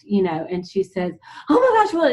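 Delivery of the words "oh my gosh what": high-pitched imitated amazement; mock-astonished outburst, pitched way up. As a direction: exclaim it in gushing disbelief. Retold amazed reaction of the girl.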